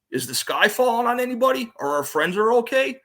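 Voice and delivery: high-pitched mock questioning; imitated rhetorical challenge. Retelling a friend's pep talk, rhetorical challenge.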